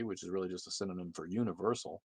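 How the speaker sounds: ordinary delivery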